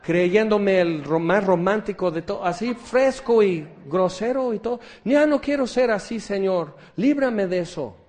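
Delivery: high, loud, pleading wail, mock-tearful; imitating a tearful plea. Repentant man begging God to free him, hammed-up tearful pleading. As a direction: beg like a man on the floor crying. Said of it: "están llorando".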